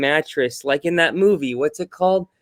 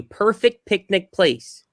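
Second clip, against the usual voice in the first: slow, careful tongue twister; slow and clear; 3 semitones higher, slower than usual. Shown as a demonstration. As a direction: spell it out slowly for her. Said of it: "I'll make it easier for you".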